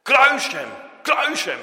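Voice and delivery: loud, high, forceful shout; crowd crying out. Acted. Preacher voices the crowd demanding crucifixion, shouting loudly. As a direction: shout it like a mob demanding death. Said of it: "waar de mensen riepen".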